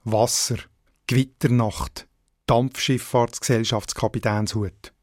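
Wasser, Gewitternacht, Dampfschifffahrtsgesellschaftskapitänshut as separate examples, each accented early on the stem; first-syllable stress. Shown as a demonstration. Language editor giving examples, stem syllable stressed in Wasser, Gewitternacht, Dampfschifffahrtsgesellschaftskapitänshut. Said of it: "in den meisten Wörtern die erste Silbe".

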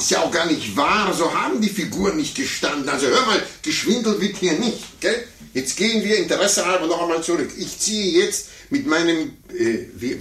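huffy high-pitched denial of the lost game; shrill denial. Acted. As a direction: accuse the child of cheating, indignant. Adult denies losing, accuses child.

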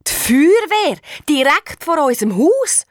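alarmed excitement. A narrator's reading. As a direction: sound startled at what's outside. Sees fire brigade outside.

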